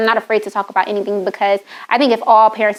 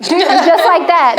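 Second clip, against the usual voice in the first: emphatic; 7 semitones higher, 4 dB louder, much slower than usual. Real, not acted. Punchline about son obeying.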